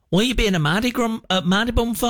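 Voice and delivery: put-on northern accent. Southern girlfriend calls her boyfriend grumpy, put-on northern accent. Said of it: "why are you talking like that".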